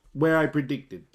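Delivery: laughing through the words. Real, not acted. Vlogger pleased with call, laughing while speaking. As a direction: let the laugh spill in.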